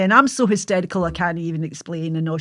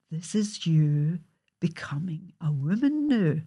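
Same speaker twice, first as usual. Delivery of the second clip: solemn motherly; 5 dB quieter, slower than usual. Retold or imitated.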